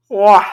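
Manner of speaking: loud open-mouthed yawn. Real, not acted. Vlogger tired on camera, yawning. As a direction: let out a real, loud yawn. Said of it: "I'm yawning a lot".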